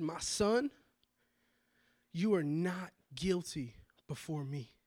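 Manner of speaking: hushed, near-whispered pronouncement; voice of God. Retold or imitated. God speaking to him in the parking lot, hushed whisper. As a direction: hush it like a holy revelation. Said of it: "I heard the audible voice".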